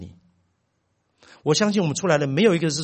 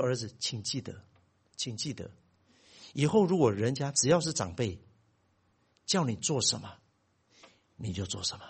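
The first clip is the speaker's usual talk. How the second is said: much softer, composed fatherly advice; calmer; 5 semitones lower, 6 dB quieter than usual. Retold or imitated. Father calmly advising his son after the argument, soft and composed. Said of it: "我稍微平静一点".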